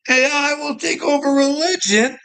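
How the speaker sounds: high, rising disbelief; incredulous echo. Real, not acted. Repeating the AI's claim back, incredulous. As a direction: repeat it back like you can't believe it.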